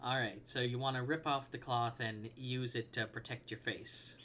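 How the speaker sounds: talking with hiccups; hiccuping between words. Real, not acted. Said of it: "Got the hiccups again".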